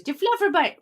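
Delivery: high, loud delighted squeal; excited pet talk. Real, not acted. Cooing at pet.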